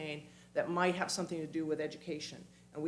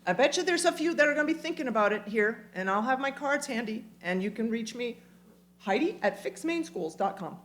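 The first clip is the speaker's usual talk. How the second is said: infomercial voice; 5 semitones higher, 4 dB louder than usual. Acted. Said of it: "do I sound like an infomercial?".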